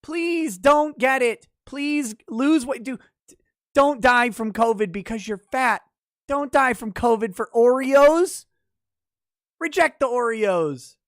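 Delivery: hammed-up scolding health expert; mock concerned doctor. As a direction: lecture fat people in a fake-caring tone. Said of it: "they were like".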